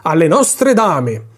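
slow, ceremonious toast; formal toast. A narrator's reading. Commander toasting the ladies, slow and ceremonious. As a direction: draw it out like a toast to an empress. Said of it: "con lo stesso tono con il quale avrebbe brindato".

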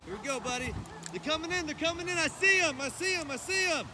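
soft, high, tense murmur; quiet excited murmur. Real, not acted. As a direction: hush while the ducks come in. Whispered waiting in blind.

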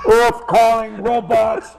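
slow mock radio hail, spaced out; a comedian hailing phone-absorbed commuters like a mock radio call. Comedian hails subway riders glued to phones, mock radio call.

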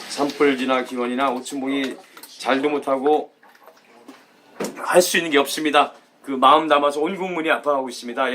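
subdued, sorrowful concern; sombre sympathy. Real, not acted. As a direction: speak gravely for the fire victims. Sombre words on the wildfire disaster.

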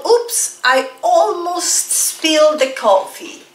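high startled oops, slowed line; teacher acting out a near spill; oops surprise. Shown as a demonstration. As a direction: demo a little accident with a gasp of surprise. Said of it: "For example".

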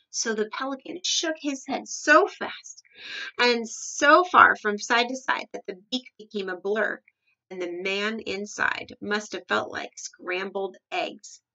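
animated read-aloud, slowing toward the end; story narration. A narrator's reading. Reader describes the pelican shaking its head, animated story narration. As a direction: tell it to children with relish.

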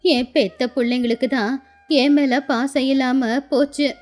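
wistful, lightly aged woman's voice; sorrowful old grandmother. Acted. Old woman tells Raju of her neglectful children, sorrowful.

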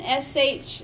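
"sh" as a long unvoiced hush; letter sound. Shown as a demonstration. Teacher shows what S H says, "sh" held as a bare sound. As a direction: hold "sh" as a pure consonant, no vowel. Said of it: "talk about the sounds that those letters make".

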